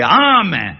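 drawn-out അമ്മേ; slow, insistent child's call; child's repeated call. Shown as a demonstration. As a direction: stretch അമ്മേ to get mother's attention. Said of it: "അമ്മേന്ന് വിളിച്ചിട്ട് ആദ്യം കേട്ടിട്ടില്ലേ".

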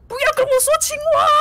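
angry outburst. Acted. Angry giant yells at the traveler about frogs. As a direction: explode at the word frog. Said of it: "然后巨人超生气说".

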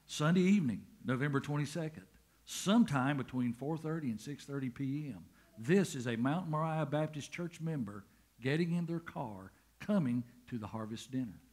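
booming promo announcer read. Shown as a demonstration. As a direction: set the scene like a radio ad. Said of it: "I gotta put on my announcer voice".

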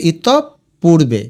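ইতপূর্বে slowly as itop, purbe; split in syllables. Shown as a demonstration. Teacher dictating spelling, ইতপূর্বে slowly split itop-purbe. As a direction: pause on the double p in ইতপূর্বে. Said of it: "তো ওইভাবে লিখবে".

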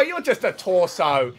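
loud high slow shout; shouting in disbelief. Real, not acted. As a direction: yell it, stretched out in disbelief. Shouting at a legless enemy.

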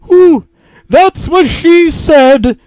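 high, loud, slow serpent-like owl taunt; high slow sneering hiss. A narrator's reading. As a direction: taunt him like a hissing serpent. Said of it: "Duolingo hissed back at me".

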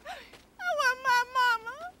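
slow, tearful whine for mama; whimpering. Acted. Bride stranded in the desert whining for her mother, tearfully. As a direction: cry out like a hurt child. Bride hurt after being yelled at.

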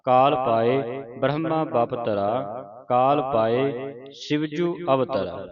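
slow, measured verse recitation; scripture recitation. Shown as a demonstration. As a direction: recite the verse slowly, drawing out line endings. (ਹੌਲੀ-ਹੌਲੀ ਪਾਠ ਉਚਾਰਨ)

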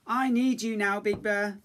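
little cub calling out for Big Bear; cub shouting. A narrator's reading. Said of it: "Little Bear shouted".

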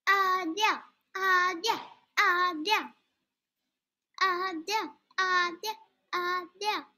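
high sing-song call of a name. Real, not acted. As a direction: call her name in a playful singsong. Calling out to friend.

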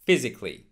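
PHYSICALLY in three syllables, "FIZ-ik-lee"; correct physically. Shown as a demonstration. Teacher modelling physically for learners, A left silent. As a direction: drop the A after C in "physically". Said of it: "it is not pronounced".

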